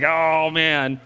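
imitating reluctant congregation. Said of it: "everyone's like".

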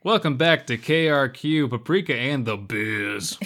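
mock radio host intro; hammed-up DJ welcome. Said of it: "Sounds stupid".

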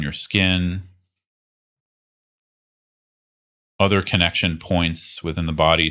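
calm, unhurried guidance with long pauses; guided meditation. Real, not acted. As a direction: gently lead them into body awareness, leaving space between phrases. Leads a guided body awareness practice.

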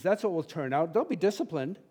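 impassioned pulpit peak; passionate preaching. Real, not acted. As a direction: preach it with building fire. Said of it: "get passionate on that one".

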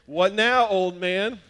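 put-on teen son gloating over his dad, loud and cocky; cocky taunt. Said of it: "I made a rookie move".

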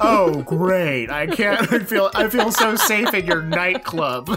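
mildly acted mocking enthusiasm; a dig dressed up as praise; mean sarcasm. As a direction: feign gratitude, meaning the opposite. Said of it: "Don't be mean now".

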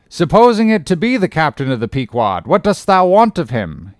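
put-on an old salt sizing up a greenhorn, loud and gruff; gruff old sea captain. Old captain interrogating a would-be sailor, loud and gruff.

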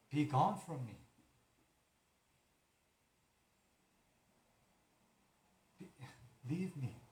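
commanding rebuke. Pretend. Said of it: "and say".

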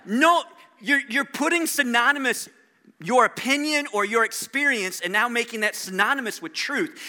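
half-yell at Oprah's phrase; frustrated shout. Retold or imitated. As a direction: pastor venting, shouting his objection at Oprah. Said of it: "But I wanna scream".

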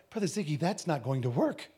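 imitated Indian accent. Indian fellow warns preacher about the IRS, light Indian accent. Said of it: "with that accent, he's like".

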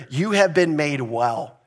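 slow, tender reading. Shown as a demonstration. Pastor voicing Jesus's words tenderly to his congregation, slow and gentle. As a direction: say it gently, like a comfort. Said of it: "This is so sweet and just tender".

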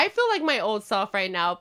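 lazy, heavy-lidded delivery; stoner. Real, not acted. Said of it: "I'm pretty high right now".

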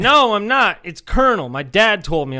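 high, loud mock protest easing down; indignant kid retort. Classmate defending his spelling, imitated indignant protest. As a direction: imitate a kid insisting at full volume. Retold kid arguing back.

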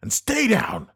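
loud, sharp order; forceful command. A narrator's reading. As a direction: bark it to keep her alive. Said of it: "he said forcefully".

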